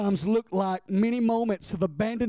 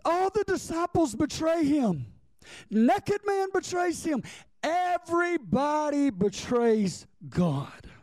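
high, drawn-out preacher's cry; impassioned preaching; 7 semitones higher than usual. Real, not acted. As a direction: preach it high, stretching the final phrase. Preaches at full force.

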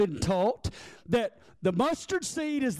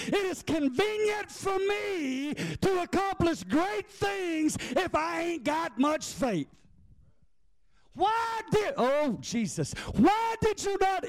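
higher, slow, rising preacher cry; preaching shout; 5 semitones higher, slower than usual. Real, not acted. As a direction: lean in and cry it out slowly.

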